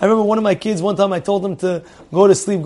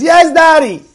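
put-on little girl reply; 9 semitones higher, 3 dB louder than usual. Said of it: "She says".

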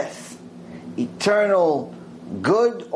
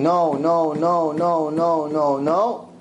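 a lightly voiced stern judge saying no; repeated refusal; much slower than usual. Judge refusing the crying woman, mild stern repeats. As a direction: keep refusing, unmoved. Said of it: "And the guy keeps saying".

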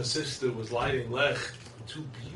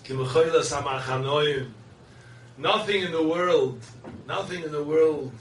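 louder, ringing sermon voice; fervent preaching; 3 semitones higher, 7 dB louder than usual. Real, not acted. Rabbi rousing his congregation, loud and fervent. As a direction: hammer each phrase home.

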